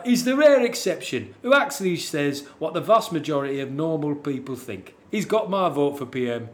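put-on Yorkshireman reading a review; Yorkshire accent. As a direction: read it out as a blunt Yorkshireman. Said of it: "slightly weird end for Yorkshireman there".

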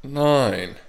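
counting reps while straining; lifting weights. Real, not acted. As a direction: strain through each rep.

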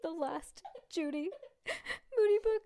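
mock crying over the book. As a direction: fake tearful sobbing. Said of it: "That actually does sound like you're crying".

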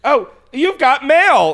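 slow, loud mock announcement; drawn-out you've got mail; announcer voice. Reciting the email alert phrase.

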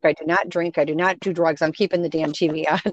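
retold firm, low-pitched insistence; low, emphatic putting-your-foot-down; firm retort. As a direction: lay down each refusal as its own statement. Retold firm refusal to partner.

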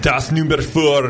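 slow, hammed-up German order; joky German-accented ordering; mock German accent. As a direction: put on a drawn-out fake German accent. Joke German beer order.

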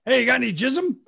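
calling out like a joke chant; playful shouted nonsense word; mock yell. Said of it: "Jeff was walking around going".

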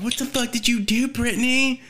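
high-pitched imitation of annoyed friends; acted-out indignant question; mock scolding. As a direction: demand it in an exaggerated high voice. Acting out friends scolding the girl.

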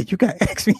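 put-on high kid voice breaking into laughter; little boy meme. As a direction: squeak it out between laughs. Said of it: "that meme".

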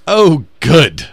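hammed-up British lady taking it cheerfully; chill British lady. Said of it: "And she says".

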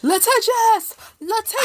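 high-pitched comic yell of a command; squealed, hammed-up shout; mock yelling. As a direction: yell it shrilly, acting out the scene. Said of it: "they start yelling litigious at his junk".

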